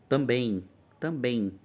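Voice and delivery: também with the final em stretched into two vowel sounds; também sounded out with its nasal ending held; nasal diphthong ending. Shown as a demonstration. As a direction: draw out the end of também like ei. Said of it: "o som de duas vogais no final".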